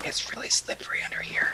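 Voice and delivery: speaking in a hushed whisper. A player speaking as their character in the game, whispering. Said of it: "I kind of whisper like".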